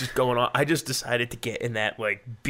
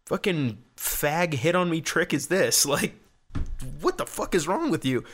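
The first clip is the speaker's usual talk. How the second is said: mock indignant outburst; 6 semitones higher than usual. Retold confrontation with a weird guy.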